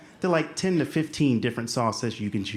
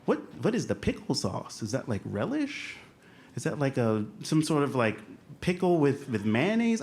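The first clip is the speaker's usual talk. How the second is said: musing aloud with rising pitch; mock pontificating; 2 semitones higher than usual. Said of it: "I start pontificating on".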